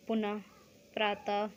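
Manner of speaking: पुनः, प्रातः with an h after the last vowel; visarga h ending. Shown as a demonstration. Teacher demonstrates ह का sound, visarga h ending. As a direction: end पुनः and प्रातः on a light "h" sound. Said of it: "इनका ह का sound होता".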